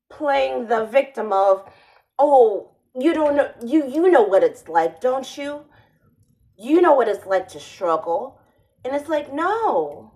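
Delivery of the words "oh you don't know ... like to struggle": hammed-up Spanish accent, pushing for sympathy; mock Spanish accent. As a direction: parody an interviewer playing victim in a put-on Spanish accent. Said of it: "fake Spanish accent".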